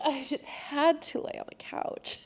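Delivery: high, soft, laughing confession; laughing repeat. Real, not acted.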